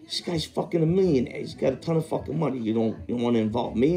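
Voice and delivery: a hint of hammed-up indignation; retold indignant complaint. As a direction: mimic a friend's outraged disbelief. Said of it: "He goes".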